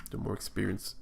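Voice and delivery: talking through hiccups. Real, not acted. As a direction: hiccup breaking the phrase. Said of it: "sorry, I got the hiccups".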